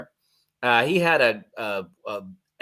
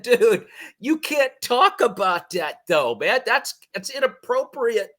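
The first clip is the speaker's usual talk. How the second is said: quoting himself; 10 semitones higher than usual. Retold or imitated. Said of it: "I said".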